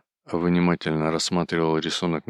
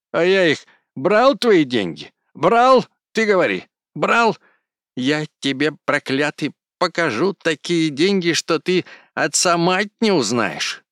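much higher, much louder furious screech; screaming rage; 10 semitones higher, 7 dB louder than usual. A narrator's reading. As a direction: scream the denial, nearly beside himself. Кузьма screaming accusation back.

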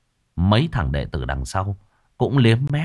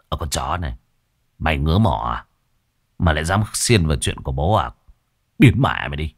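lower, menacing sneer at the intruder; lower thug voice; 4 semitones lower than usual. Acted. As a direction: growl it down at him. Thug growls at the hero.

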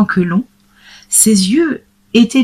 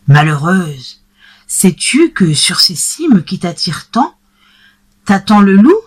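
crying out. Acted. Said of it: "s'écria monsieur Seguin".

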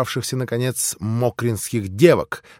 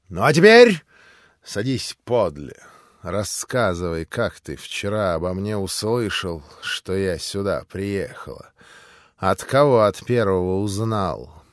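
tender; 5 semitones lower than usual. Acted. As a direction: coax him close to tell all. Intimate talk beside Mitya.

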